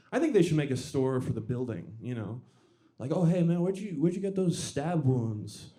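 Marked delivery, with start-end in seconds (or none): 3.1-5.7 chatty customer. Pretend. Acted store-ad dialogue.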